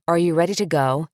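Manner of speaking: "Are you ready to go?" with the pitch rising on "go"; rising question. Shown as a demonstration. Parent asking child if ready to leave, rising question. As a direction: let it lift at the end like a question. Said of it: "Are you asking your child to do something or telling them?".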